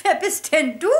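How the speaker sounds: high, loud startled coo; startled high trill; surprised high lady. A narrator's reading. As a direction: gasp it like a fluttery teacher. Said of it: "fragte sie den Kakadu".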